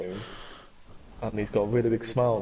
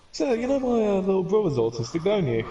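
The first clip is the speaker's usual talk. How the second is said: pointed question; 9 semitones higher than usual. Retold or imitated. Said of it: "my brother just goes".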